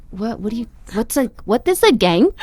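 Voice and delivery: put-on genuinely clueless kid asking; confused disbelief. Naive girl asking her friend what a gang is, baffled. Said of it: "I was like".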